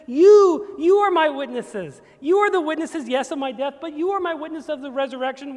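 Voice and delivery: loud, high fervent proclamation; Jesus voiced. Jesus tells the disciples who denied him, loud and high. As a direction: call out to them with urgent love. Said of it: "and he says".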